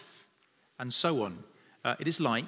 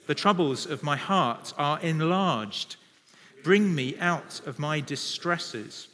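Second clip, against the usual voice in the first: many voices in unison. Real, not acted. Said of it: "We're gonna read it aloud together".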